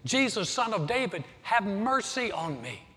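hint of a beggar shouting over the crowd; the beggar yelling over the noisy crowd, lightly acted; mild mock yell. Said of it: "yelling at the top of his voice".

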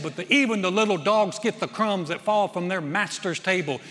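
loud, emphatic retort of faith; powerful reply. Retold or imitated. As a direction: preach her answer with force. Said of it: "she says something powerful".

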